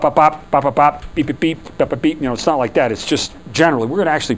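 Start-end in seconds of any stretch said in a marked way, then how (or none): 0.0-2.2 mechanical bop beep noises. Shown as a demonstration. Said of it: "it's not like bop".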